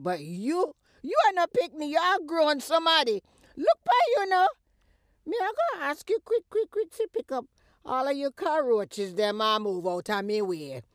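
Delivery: high, loud telling-off, quick at first; angry eviction. Acted. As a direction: order her out of the house at the top of her voice. Mother ordering daughter out.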